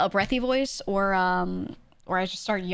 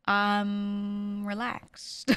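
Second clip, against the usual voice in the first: hugely drawn-out, level "I'm relaxed"; mock relaxed; much slower than usual. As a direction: stretch it lazily on one held note. Acting own low-energy reply.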